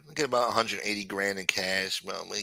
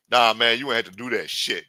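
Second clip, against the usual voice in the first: louder scolding voice close to the speaker's own; Hakeem, corrected voice; 5 dB louder than usual. Retold or imitated. Hakeem scolding the shooter in the car, firm natural-pitched voice. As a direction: scold firmly without any falsetto. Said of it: "Yeah, that's how he talks".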